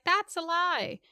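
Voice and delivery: high indignant whine; mock Joffrey. Friend mimicking Joffrey denying it, high whiny. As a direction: whine it like a bratty prince. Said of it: "Joffrey's like".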